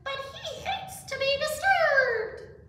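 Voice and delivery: high, loud, slow protest; alarmed animals. A narrator's reading. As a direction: object in high-pitched alarm. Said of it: "gasped the animals".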